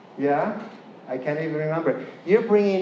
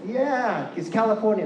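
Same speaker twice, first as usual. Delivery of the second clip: higher Californian voice with wide A; Californian accent; 5 semitones higher than usual. Shown as a demonstration. Speaker demonstrating the back "ah", Californian accent. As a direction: open up the Californian A. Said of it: "this wide A".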